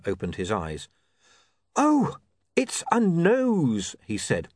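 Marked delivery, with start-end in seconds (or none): 1.8-4.0 slow relief. Acted. William relieved slowly.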